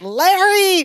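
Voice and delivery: mock angry yell, pitched high; angry call. Podcaster as Jennifer heading upstairs, mock angry call. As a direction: drag the name out in high exasperation. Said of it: "she's angry".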